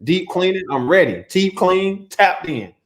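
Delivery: half-numb mouth, slightly slurred; numb from the dentist. Real, not acted. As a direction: talk through a numb cheek. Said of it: "Half of my mouth is numb over here".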